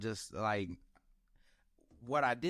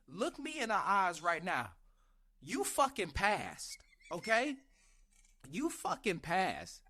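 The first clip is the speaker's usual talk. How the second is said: higher pitched, leaning on each word; firm pep talk; 5 semitones higher than usual. Retold or imitated.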